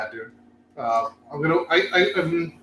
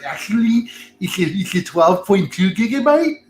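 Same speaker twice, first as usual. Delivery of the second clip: nerd voice; 3 semitones higher than usual. Retold or imitated. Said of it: "put your nerd glasses on".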